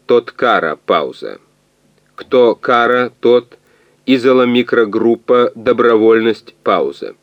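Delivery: slow machine voice, word by word; голос калькулятора. A narrator's reading. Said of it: "потом опять заговорил". (медленная речь машины-переводчика)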